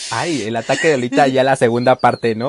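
breaking character giggling. Real, not acted. Second giggle fit, joking.

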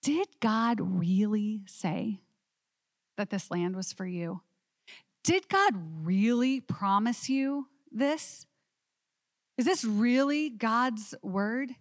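slow, insinuating whisper of doubt; sly doubting voice. Acted. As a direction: plant the doubt slowly, like a tempter. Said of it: "It's like they're saying to them".

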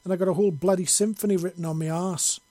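proud angry Scot listing his scars; indignant and proud. A narrator's reading. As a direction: boast and scold at once, full brogue. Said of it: "with a mixture of indignance and pride".

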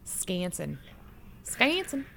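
"Scanson": Wisconsin cut down to SCAN-sin; barely said W. Shown as a demonstration. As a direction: drop the first syllable, leaving "Scanson". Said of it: "we barely say the W".

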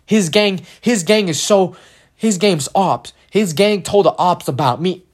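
mock tough-guy bravado; mocking street-tough swagger; tough kid. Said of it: "like, super tough".

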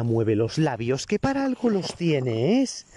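mock-furious scolding of lazy speakers; exasperated rant. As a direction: lecture the mumblers word by word. Ranting at mumbling speakers.

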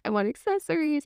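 high and eager, rising with each want; a greedy little kid reeling off wishes; playful wife listing everything she wants; gleeful listing. Retold or imitated. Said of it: "I was like".

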